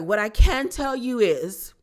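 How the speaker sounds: mock a grand, theatrical confession with a put-on accent; overly profound Downton Abbey accent, imitating Meredith; Meredith's posh accent. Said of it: "this accent and the dramatics and these profound dialogues".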